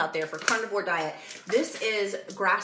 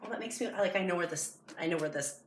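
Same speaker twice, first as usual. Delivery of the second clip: softer voice, close to tears; choked up; 6 dB quieter than usual. Real, not acted. Vlogger moved by a farm down the road, softly choked up. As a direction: hold back tears as the words come. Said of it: "Why am I getting emotional".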